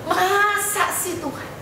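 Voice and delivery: very slow, high, pleading repeat to God. Retold or imitated. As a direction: draw out "Masa sih Tuhan?" high and slow like a plea. Retold pleading prayer, repeated higher.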